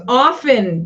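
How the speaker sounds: OFTEN said "off-en", no t sound; often with silent T. Shown as a demonstration. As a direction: drop the T in OFTEN. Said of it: "The T is silent".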